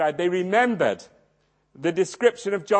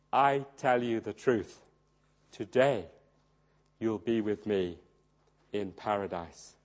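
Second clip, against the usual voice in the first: quiet dying words; 9 semitones lower, 6 dB quieter than usual. Retold or imitated. Jesus dying, speaking to thief.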